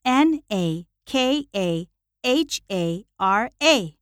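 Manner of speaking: slow, letter by letter; spelling it out. Real, not acted. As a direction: spell each letter slowly and distinctly. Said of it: "The last name is".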